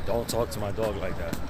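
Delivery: low, gruff imitation of the guy; a lightly voiced tough guy scolding; angry dog owner. Dog owner scolding the narrator over his dog, low gruff voice. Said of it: "the guy's like".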